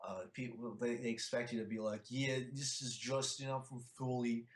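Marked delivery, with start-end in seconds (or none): 2.1-4.5 a light, slow mock Philly accent; imitating a Philly accent at a slow pace. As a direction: ham up a Philly guy introducing himself, lightly. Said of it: "You actually sound like Rocky now".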